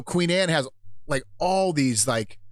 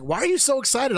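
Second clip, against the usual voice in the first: mock puzzled friends; 11 semitones higher than usual. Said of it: "everybody else is like".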